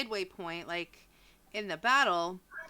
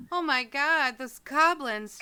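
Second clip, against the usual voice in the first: 1 shocked villager lady; 5 semitones higher, 6 dB louder than usual. Acted. NPC lady voiced shivering.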